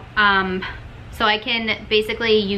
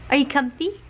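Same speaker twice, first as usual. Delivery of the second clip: higher doting question; pet-talk; 5 semitones higher than usual. Real, not acted. Owner checking the dog is comfy, doting pet-talk. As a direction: ask the dog sweetly, voice lifted.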